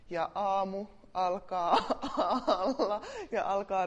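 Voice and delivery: words breaking into laughter; laughing. Real, not acted. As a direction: let the laugh slip in mid-sentence.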